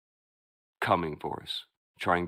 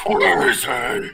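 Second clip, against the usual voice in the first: put-on high, slow, raspy old lady; old smoker woman voice; 11 semitones higher, 10 dB louder, much slower than usual. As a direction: croak it like a chain-smoking granny. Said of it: "sounded like a old woman that smokes a lot".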